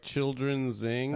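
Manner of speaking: "zing" said as the word zing, slowed; "children zing" read with "zing" as a word. Shown as a demonstration. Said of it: "I used to say".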